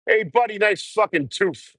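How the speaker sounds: high mocking voice, slow on the insult; jeering at the man's teeth; mock yokel voice. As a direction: sneer it out in a high put-on voice. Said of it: "It's like".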